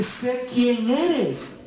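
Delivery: very slow, high demon whisper-like line. Retold or imitated. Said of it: "Y dice".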